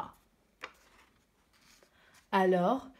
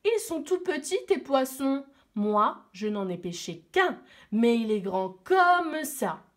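proud; 3 semitones higher, 3 dB louder than usual. Acted. Little boy boasting to his older brother, proud and mocking. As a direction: brag to impress your brother. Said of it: "qui était très fier".

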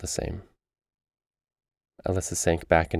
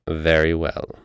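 put-on curt old crone voice; clipped witch reply; haggard crone voice; 4 dB louder, slower than usual. A narrator's reading. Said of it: "a voice like a haggard crone out of nightmares".

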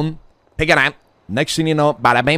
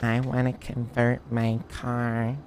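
April impression; 6 dB quieter than usual. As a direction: imitate a girl wheedling a favor. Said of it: "I don't sound like that".

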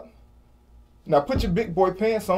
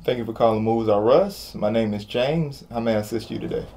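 polite phone greeting, lower and even; customer service voice; 5 semitones lower than usual. Acted. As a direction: greet the caller like a call center. Company rep answering phone.

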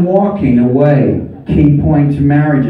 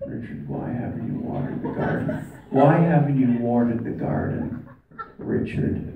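mock wife scolding; 9 dB quieter than usual. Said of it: "She came in to the room and said".

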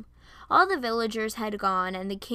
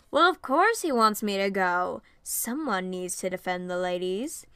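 swagger through it, showing off; cocky. Acted. A man boasting he must defend the ladies, cocky. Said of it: "He popped his collar cockily".

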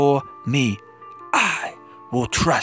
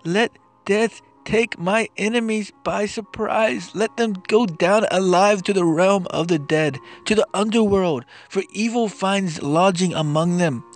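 impassioned plea; 5 semitones higher than usual. Acted. Anguished lament in psalm reading.

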